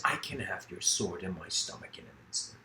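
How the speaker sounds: soft monk's reply, no fear in it; calm smiling reply. Retold or imitated. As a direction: answer the threat with a quiet smile. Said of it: "And he smiles and he says".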